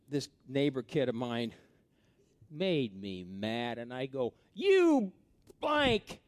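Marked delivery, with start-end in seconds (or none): 4.5-6.2 higher, louder mock yell at a kid; kid's angry outburst. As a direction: hurl the insult like a mad teenager. Kid yelling at neighbor kid.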